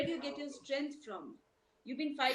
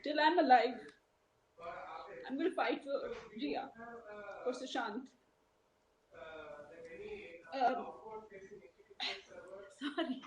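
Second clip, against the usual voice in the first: real tearful pledge, with halting pauses; on the verge of crying. Real, not acted. A mother pledging to fight for Jia, close to crying. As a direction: push on through tears, stopping to recover. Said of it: "Don't cry".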